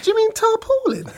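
high, squeezed out through laughter; laughing. Real, not acted. Storyteller retelling his correction to the builder, laughing. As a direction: ask it while cracking up.

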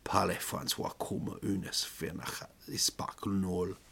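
hushed, low French aside; whispered French jab; muttered French insult. Retold or imitated. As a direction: mutter it behind the counter. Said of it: "they would say to each other behind the counter".

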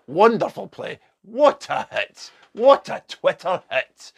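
loud, high, drawn-out praise; impressed acclaim. Real, not acted. Applauding Colleen Rooney's clever play, loud admiring acclaim. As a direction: stretch each cheer slowly, pitched well up.

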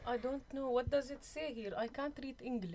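light put-on Arab accent. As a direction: play an Arab prisoner with a hint of accent. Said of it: "so you can do an Arab accent".

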